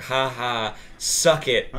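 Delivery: taunting quote, punched up at the end; mock gloating. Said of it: "that's what it felt like when you were saying".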